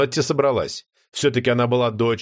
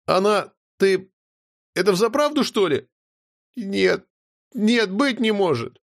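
put-on higher girl's voice, stunned and disbelieving; stunned young girl; 7 semitones higher than usual. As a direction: she can't believe her eyes. Notti in disbelief.

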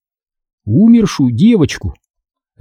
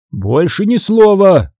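slow, higher-pitched firm command; stern cutting-off; 5 semitones higher, slower than usual. A narrator's reading. Father cuts off arguing son, sternly. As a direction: shut the argument down. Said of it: "оборвал меня отец".

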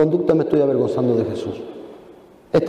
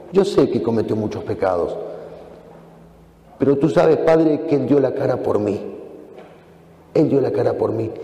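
tender plea; 4 semitones lower than usual. Acted. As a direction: lower and gentle, interceding for a friend. Jesus interceding to the Father.

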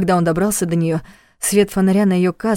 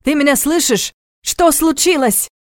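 calling out; 7 semitones higher than usual. A narrator's reading. Calling down the tunnel.

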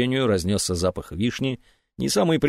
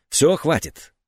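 воскликнула; 5 semitones higher, slower than usual. Acted. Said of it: "воскликнула".

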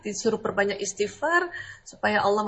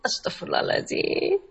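breathy istighfar; 10 semitones higher than usual. Shown as a demonstration. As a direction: exhale Astagfirullahaladzim on a long, high, unvoiced breath.

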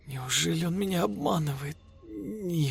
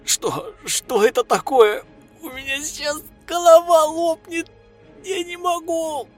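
high, loud cry of pain; agonised scream; 7 dB louder than usual. A narrator's reading. Yulia screaming in pain before falling, high and loud. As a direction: scream as her head splits. Yulia's head about to burst.

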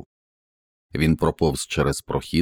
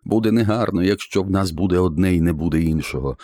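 raven shouting; 5 semitones higher than usual. Acted. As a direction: declare it to the world as the raven. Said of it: "Ворон кричав".

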